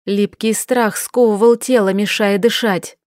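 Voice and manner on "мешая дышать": ordinary delivery, nothing marked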